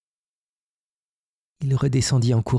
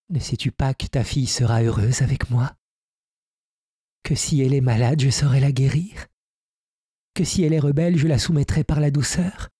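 fairy Zia; 4 semitones higher than usual. Acted. Fairy Zia persuades Hermann.

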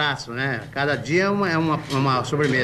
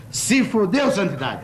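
mocking retort; 7 semitones higher than usual. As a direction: rub it in with a cackle.

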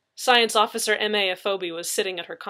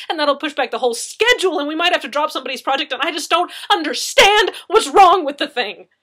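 fast, louder, higher panicked rush; near tears; 6 semitones higher, 10 dB louder than usual. A narrator's reading. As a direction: babble it out on the edge of tears. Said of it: "on the verge of tears".

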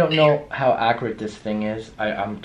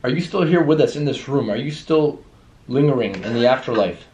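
calling out; 3 semitones higher, 5 dB louder than usual. Real, not acted. Investigator to a lingering spirit, calling out. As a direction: project the question into the room.

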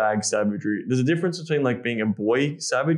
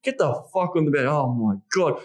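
raw animal intensity; a touch of the wild man, urgent; savage; 3 semitones higher than usual. Shown as a demonstration. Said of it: "playing around with these dynamics".

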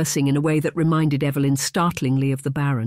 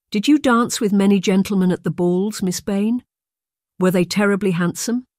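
put-on high, eager girlish questioning; eager curiosity; 5 semitones higher, 4 dB louder than usual. A narrator's reading. Girl asks her governess about gentlemen at balls, eagerly curious. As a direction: press for details, higher-pitched and eager. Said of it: "The eager question caught Evelyn off guard".

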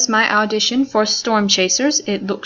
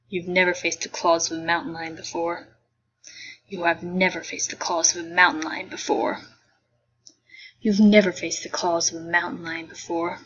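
soft, lower, unemotional; bored tone; 3 semitones lower, 3 dB quieter than usual. Acted. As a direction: say it with no feeling. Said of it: "bored tone of voice".

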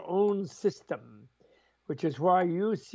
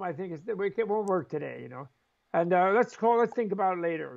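cheerful rudeness; 3 semitones higher than usual. Pretend. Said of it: "it's like cheerful rudeness".

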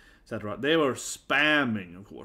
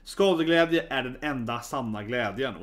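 a Swedish saying spoken in native Swedish; mother's favourite saying, quoted in Swedish; quoting in Swedish. Retold or imitated. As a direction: say it as a proud Swedish proverb. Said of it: "a saying in Swedish that my mother always says".

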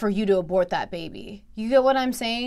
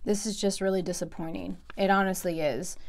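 softer, subdued and let down; disappointed, deflated; 7 dB quieter than usual. Real, not acted. Reactor let down by the pastor's response, subdued. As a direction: say it quietly, the spunk gone. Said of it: "started off a little bit more spunkier than I just am now".

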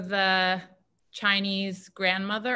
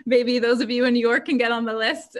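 laughing; 5 semitones higher, 6 dB louder than usual. Real, not acted. Joking about tamale fairy list.

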